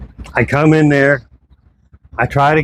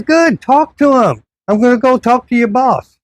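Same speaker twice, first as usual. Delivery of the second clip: retold defiant brush-off; 10 semitones higher than usual. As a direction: drag it out to say I'm done with you. Final retort walking out.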